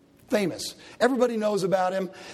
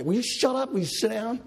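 stern rebuke; 5 semitones higher than usual. Retold or imitated. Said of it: "they sternly rebuked him".

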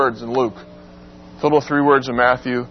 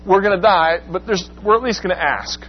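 overdone demo; 4 semitones higher than usual. Shown as a demonstration. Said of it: "I'm overdoing it here a little bit".

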